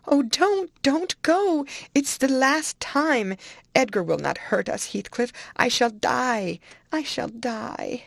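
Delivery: high, loud, frantic pleading; desperate shrieking. A narrator's reading. Dying woman begs her lover not to leave, desperate shrieking. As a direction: wail it, slowing on the final cries. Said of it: "she shrieked".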